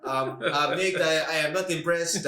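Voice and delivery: halting mock French accent; George Saint Pierre. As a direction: imitate a hesitant French-accented English. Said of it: "was that a French accent you did".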